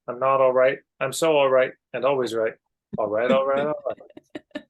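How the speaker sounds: hammed-up always-right braggart; sing-song mock reassurance that fades away; mock self-assured rambling. Voicing chart's last type, sing-song.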